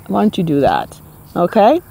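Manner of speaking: a touch of New York sass, tossed off; New York attitude. Acted. Telling off critics, mild New York challenge. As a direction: challenge them, lightly streetwise. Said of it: "that's my New York way of saying it".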